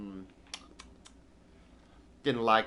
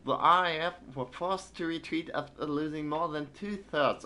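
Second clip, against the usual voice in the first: put-on a shaky British newsreader accent; British accent attempt; 5 semitones higher than usual. Streamer resumes the British newspaper in a British accent. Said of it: "I can't do British accent".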